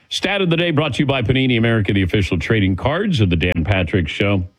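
quick radio sponsor tag; sponsor read. Acted. Host reads the sponsor tag to listeners, brisk. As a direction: rattle off the sponsor line brisk and bright.

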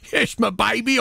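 mild mock endearment. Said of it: "I said".

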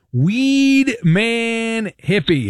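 boxing-ring build-up to the caller's name; drawn-out announcer intro. Acted. Host announcing the caller on air in a slow, drawn-out announcer voice.

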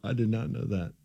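laughing through the words; real laughter at a silly fact. Real, not acted. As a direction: crack up while saying it. Laughing at Panda Express.

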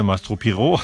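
"Piero" afrancesado, con erre gutural; acento francés. Retold or imitated. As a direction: di "Piero" como "Pigó", a la francesa. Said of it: "como bien has pronunciado". ("Mastro Piero" con acento francés)

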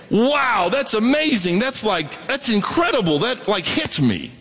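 lifted, wide-eyed wonder at a verse; a light touch of amazed awe; mock amazement. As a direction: act out being struck by the verse. Imagined reader amazed by verse.

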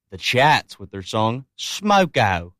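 put-on a weak, slow stab at an Australian accent; the DJ hams up the band name in a bad Australian accent. Announcing a band in a mock Australian accent. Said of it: "That was my worst Australian accent".

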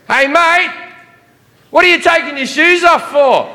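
high-pitched mock security officer; calling out a challenge. Security guy questions traveller removing shoes, high incredulous challenge.

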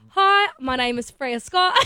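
put-on slow, careful Australian accent. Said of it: "how well do you do an Aussie accent".

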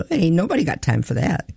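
lightly mimicked excited interviewee; imitated excited boy. Repeating the boy's reaction to a news story, mildly mock-excited. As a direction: quote the boy with a mild touch of excitement. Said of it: "He was just so excited".

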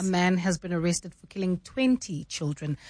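measured news delivery with weight on "twenty"; news inflection. Shown as a demonstration. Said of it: "sing-song thing that happens in news".

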